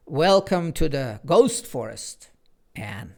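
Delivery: mock-scary clock announcing the forest; spooky emphasis. A narrator's reading. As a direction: linger ominously on the most terrifying. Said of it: "emphasize the effect of those last words".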